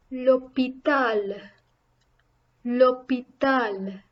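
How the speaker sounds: "L'hôpital" slowly, each vowel prominent; stressed, prominent vowels. Shown as a demonstration. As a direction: draw out "L'hôpital" syllable by syllable for learners. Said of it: "makes the vowel sound more stressed".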